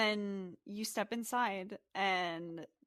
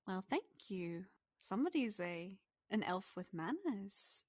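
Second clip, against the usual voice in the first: softer, lilting pixie voice; pleased pixie; 5 dB quieter than usual. Acted. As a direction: thank him as a flattered little pixie. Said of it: "And she giggles".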